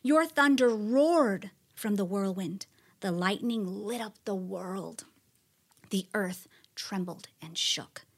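building awe, some lines whispered, some lines slow; dramatic psalm of praise. Acted. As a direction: proclaim God's mighty works with awe.

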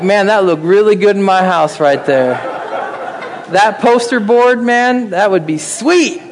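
laughing through an admiring quote; laughing mock admirer. Preacher to congregation, mimicking a shopper admiring Walmart art, laughing. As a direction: chuckle while gushing over the picture. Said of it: "You're like".

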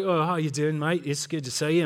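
lightly imitated Australian greeting; Australian accent. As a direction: put on a friendly Aussie accent. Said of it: "Oh, you're Australian?".

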